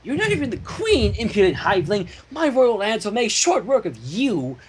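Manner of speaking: lightly voiced proud princess; haughty queen. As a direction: lord it over the hiveling. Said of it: "added Cadence".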